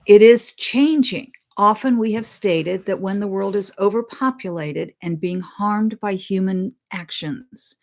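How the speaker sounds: solemn read-aloud of a spirit's words; reading a channeled message. Acted. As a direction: deliver the message deliberately, like scripture.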